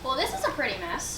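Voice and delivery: low, soft dog-mother voice; a low soft gruff dog voice; fairy dog mother. Acted. Fairy dog mother to frog mother, low soft voice.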